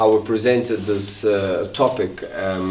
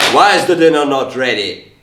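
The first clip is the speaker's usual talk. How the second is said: mildly irritated demand, louder and lifted; raised voice; 3 semitones higher, 5 dB louder than usual. Acted. Man snapping at partner over late dinner, acted raised voice. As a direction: raise your voice in an acted domestic complaint. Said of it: "why are you raising your voice like that".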